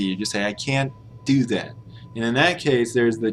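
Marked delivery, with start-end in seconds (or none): 0.4-1.7 "can't" with the T left unreleased; "can't" said as "can'", full vowel; dropped T in can't. Shown as a demonstration. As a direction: swallow the T of "can't" before "do". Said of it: "you don't even really say the T".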